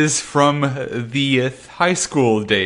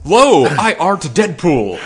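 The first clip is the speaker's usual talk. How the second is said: Shakespearean English; 2 semitones higher, slower than usual. Pretend. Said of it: "destroy all forms of media doing this".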